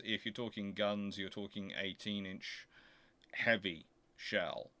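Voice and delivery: ordinary delivery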